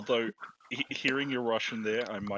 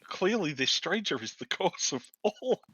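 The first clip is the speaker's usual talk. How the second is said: mock grave zealot; 6 semitones higher than usual. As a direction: pronounce it like a fanatic. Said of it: "You're like".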